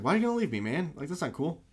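high-pitched, hurt mock complaint; mock whine. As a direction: whine it like an abandoned pal. Retold hero whining at butler.

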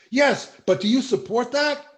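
high, loud pushy reporter; mock reporter. Mocking the reporter pushing the protester, high and loud. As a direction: needle him like a smug reporter. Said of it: "He said".

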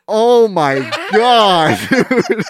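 breathless giggles through disgust; laughing in disgust. Real, not acted. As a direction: laugh helplessly while gagging. Reacting to a fart, laughing.

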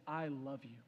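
low, soft declaration of love; hushed, loving murmur; tender. Acted. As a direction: say it gently, just to her. King tells condemned mother his love.

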